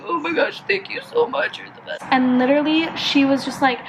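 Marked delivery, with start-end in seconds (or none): 0.0-2.0 high, thinning voice fading away; hammed-up squeak of overwhelmed gratitude; gushing thanks. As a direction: climb high and small as you thank. Acting out her gushing tearful thanks.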